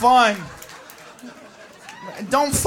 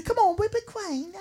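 mock posh English; 8 semitones higher, 6 dB quieter than usual. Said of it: "You can be".

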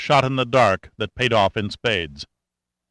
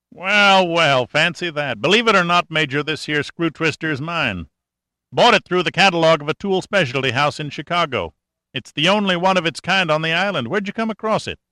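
amused country mechanic; 6 semitones higher than usual. Acted. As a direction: savour the surprise like a sly old mechanic. Cashman voice, amused.

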